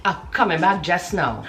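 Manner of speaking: Trini dialect phrase; Trinidadian accent. Shown as a demonstration. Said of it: "I'll be there in a minute".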